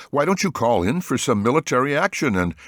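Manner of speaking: cracking voice. A narrator's reading. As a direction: let the voice crack. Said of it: "his voice cracking".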